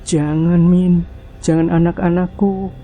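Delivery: high, desperate begging; pleading cry. Acted. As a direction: beg for the children in terror. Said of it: "teriak Erna".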